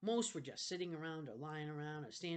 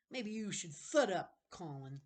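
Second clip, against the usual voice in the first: angry bully; 4 semitones higher, 7 dB louder, slower than usual. Acted. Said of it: "angry slits".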